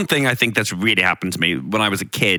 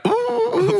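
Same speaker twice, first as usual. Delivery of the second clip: spooky ooh. Pretend. Spooky reaction to fortunes.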